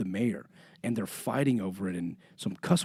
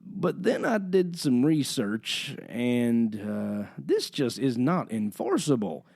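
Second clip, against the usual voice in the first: southern drawl; slower than usual. Retold or imitated. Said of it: "these southern accents".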